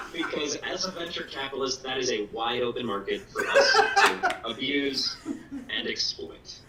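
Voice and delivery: giggling through the words; trying not to laugh while talking. Real, not acted. Laughing through own pitch.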